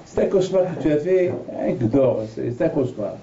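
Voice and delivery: wife telling husband to sleep; dismissive wife. Retold or imitated. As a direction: wave it away as a bad dream.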